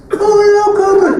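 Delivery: high, loud, drawn-out shout; shouted announcement. Real, not acted. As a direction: yell it like an arcade announcer. Announcing the alarm song.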